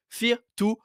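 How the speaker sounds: English title in a heavy French accent; bad English accent. Real, not acted. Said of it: "mon accent anglais est nul à chier".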